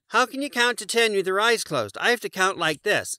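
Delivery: Morris the moose. A narrator's reading. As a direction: explain it high and eager. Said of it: "Morris asked".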